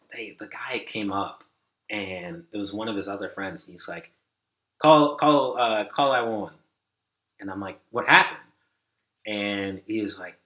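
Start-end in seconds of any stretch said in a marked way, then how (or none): 4.8-6.5 raised, louder, stumbling call for help; urgent retold plea. Friend telling the desk to get an ambulance, urgent. 7.9-8.4 higher, louder startled question; alarmed retold question. Desk worker hearing of an emergency, alarmed.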